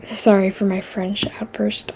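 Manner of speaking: hushed, breathy apology under the breath; whispered aside. Real, not acted. Whispering sorry to viewers for the French.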